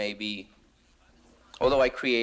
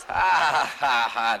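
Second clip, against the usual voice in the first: mock laugh; 3 semitones higher, 4 dB louder, slower than usual. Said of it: "So there he goes".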